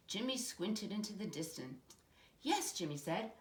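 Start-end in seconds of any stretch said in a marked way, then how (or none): 2.4-2.7 excited yes. A narrator's reading. Child spotting island.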